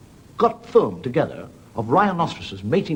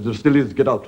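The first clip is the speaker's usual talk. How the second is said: gruff get out; 5 dB louder than usual. Retold or imitated. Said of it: "the publican said".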